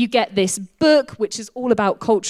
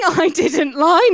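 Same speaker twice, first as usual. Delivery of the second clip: laughing through the words, slower; 7 semitones higher, 7 dB louder, slower than usual. Real, not acted. Speaker laughing to the congregation after joking about lying. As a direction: chuckle out the denial.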